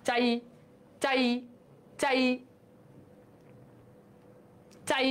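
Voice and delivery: "চাই" closing on a short half ই, spaced out; hasanta ending. Shown as a demonstration. Teacher showing the half vowel, "চাই" cut short. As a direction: stop each "চাই" on the glide. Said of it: "একটা হস পড়ে যাচ্ছে".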